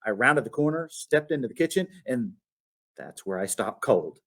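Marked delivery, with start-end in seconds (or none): none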